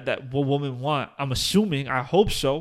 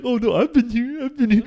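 sheepish admission; 7 semitones higher, 6 dB louder than usual. Retold or imitated. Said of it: "It's like".

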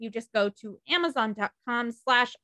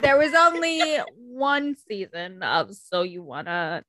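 documentary voice; 2 semitones lower, slower than usual. Acted. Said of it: "This is my documentary voice".

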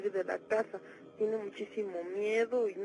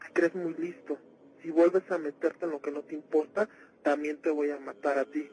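demon voice; 6 semitones lower, 4 dB louder than usual. Acted. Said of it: "hablaba con voz de hombre".

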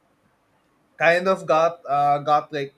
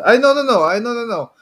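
emphatic no; 8 semitones higher, 8 dB louder, faster than usual. Real, not acted. Protesting a co-host's pick.

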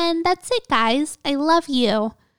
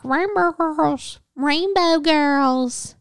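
put-on "Rainbow Girls" said slowly and deliberately, each syllable clear; slow and careful; 4 semitones higher, slower than usual. Shown as a demonstration. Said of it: "I, like, can't talk".

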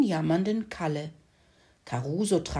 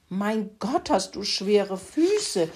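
slow, slightly higher pig grumble; lightly grunting pig; 3 semitones higher, slower than usual. Acted. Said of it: "grunzte Kalle".

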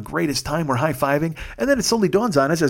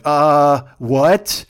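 loud, baffled uh what; stunned surprise; 7 dB louder than usual. Retold or imitated. A rock musician hearing a singer play his song, loud stunned surprise. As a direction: hear your song and freeze. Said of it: "I'm like".

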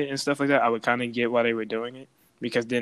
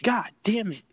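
higher, strained groan; mock despair; 9 semitones higher than usual. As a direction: whine it like all is lost. Caught again, despair.

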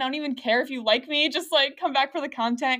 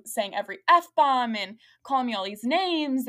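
ordinary talk, nothing marked

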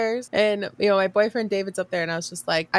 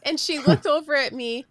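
normal talking voice

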